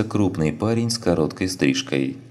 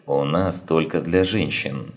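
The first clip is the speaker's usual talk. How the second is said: unfriendly. Acted. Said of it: "недружелюбно отозвалась кобра".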